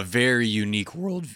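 accidental crack in the voice. Real, not acted. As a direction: voice breaks on "world". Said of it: "as my voice cracked".

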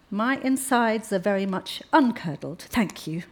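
stiffly. Acted. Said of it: "Alice said stiffly".

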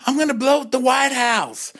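high, mock-menacing diva voice; campy pop-diva impression. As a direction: threaten it like a camp diva. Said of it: "And the singer's like".

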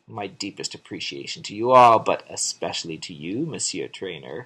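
lightly voiced French lady, sinking low; a hint of a flirty French maid. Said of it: "the little French maid gets out".

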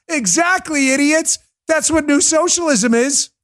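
high, scornful, winning the point; triumphant rant. Real, not acted. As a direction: nail it home with a sneer. Ranting, triumphant.

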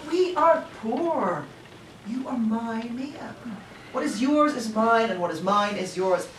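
loud pleading. Acted. Ted to Mia, brushing off her worry, loud and insistent.

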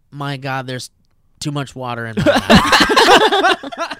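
loud, slow, laughing gurgle of panic; drowning last words. Acted. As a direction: drag out the drowning wail. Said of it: "he said something along the lines of".

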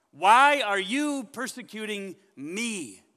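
God taking it personally. Shown as a demonstration. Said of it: "God takes that personally".

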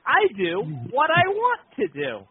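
imitating a wrestler's catchphrase; a light mock Piper promo; Roddy Piper line. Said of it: "I like when you go".

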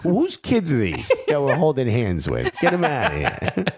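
laughing mock Jersey accent; hammed-up old salesman with Jersey vowels; Bob Bradley. Coach objecting to the mascot kids, mock Jersey accent. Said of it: "just like an old Cadillac salesman".

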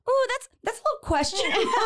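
high, quick hesitant reaction, half laughing; mock wary. Reacting to the slogan on the can, mock wary. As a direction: wince through it, high and amused.

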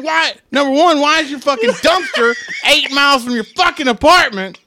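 high, laughing exasperation; exasperated. Retold or imitated. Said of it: "I'm like".

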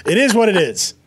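chuckling through the catchphrase; laughing. Retold or imitated. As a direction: laugh while saying it. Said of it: "The worst line given to us by any reality sh".

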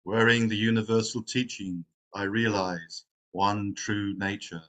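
measured, solemn recital of a verse; verse recitation. Real, not acted. Opening a meditation with the Verse of the Robe, recited. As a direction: recite it line by line, slowing into the close. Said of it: "reciting one of the Zen Buddhist".

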